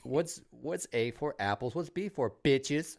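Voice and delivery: slow, sing-song alphabet quiz with a cheeky punchline; kid quiz parody. Pretend. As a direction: play a parent drilling letters.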